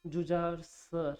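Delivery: slow, word-by-word dictation; dictating slowly. Shown as a demonstration. Teacher slowly dictating the letter to students. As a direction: spell it out slowly as you write. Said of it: "मैंने लिखा".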